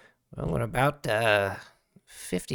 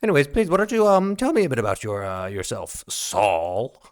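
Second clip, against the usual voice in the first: schmooze the new guest; sweet-talking Stark. Acted. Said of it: "And he goes".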